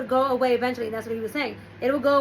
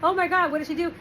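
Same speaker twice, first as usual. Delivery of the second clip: higher, mock horrified exclamation; imitating shock and horror; 5 semitones higher than usual. Family reads the letter about the daughter, mock horror. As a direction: gasp it out like a scandalised family member. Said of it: "everybody's in shock and horror".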